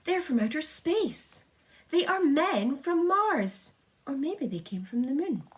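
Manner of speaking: high, slow shouting crowd; excited shouting. A narrator's reading. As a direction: yell it up at the roof in wonder. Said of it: "they shouted".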